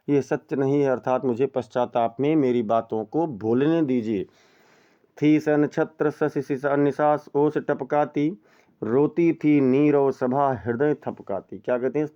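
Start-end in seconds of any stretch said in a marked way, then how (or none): 5.2-11.6 slow, measured verse reading; poem recitation. Shown as a demonstration. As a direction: recite it like classical poetry. (धीमा काव्य पाठ)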